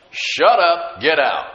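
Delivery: loud, punched two-part order; forceful command. Retold or imitated. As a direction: order the devils out, loud and firm. Punchy repeat of command to devils.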